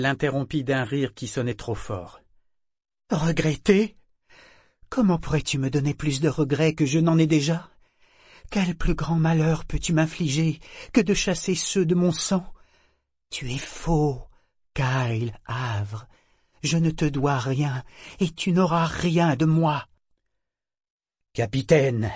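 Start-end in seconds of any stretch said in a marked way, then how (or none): 3.1-19.9 higher, louder scorn; scornful defiance. Acted. Figurehead defying Kyle, loud scorn. 21.3-22.1 deferent call. Acted. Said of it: "Le ton de Gantry était empreint de déférence".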